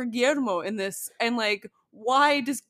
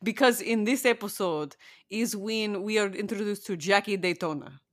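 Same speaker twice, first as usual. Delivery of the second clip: a light, hammed-up Eastern European vampire accent; a podcaster playing a crappy Eastern European vampire, lightly. Co-host chatting about a vampire show, in a mock Eastern European vampire accent. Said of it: "funny Eastern European crappy vampire accent".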